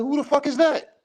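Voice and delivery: incredulous question pitched high; imitating a fan who doesn't know the fighter; mock disbelief. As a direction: act baffled, like you've never heard of her. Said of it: "we be like".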